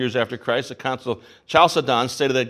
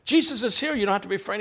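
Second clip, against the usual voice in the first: softer, higher voice of a comforting father; reassuring; 6 semitones higher, 4 dB quieter, faster than usual. Acted. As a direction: gently soothe a frightened child. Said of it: "you know, assures him".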